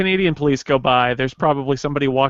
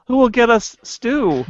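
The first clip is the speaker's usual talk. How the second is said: sarcastic mock lament, laughing; 7 semitones higher, 3 dB louder than usual. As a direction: drip sarcasm over the loss. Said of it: "the sarcastic tone".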